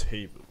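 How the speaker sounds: Hebel said HAY-bel, with a long first vowel; trying out the vowel. Shown as a demonstration. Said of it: "Like in air".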